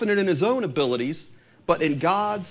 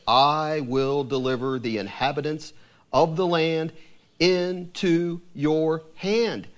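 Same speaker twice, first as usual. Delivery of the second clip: measured, solemn reading of scripture; steady, reverent Bible reading; 2 semitones lower, slower than usual. Acted. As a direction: read it like holy writ, deliberate. Reads scripture passage aloud.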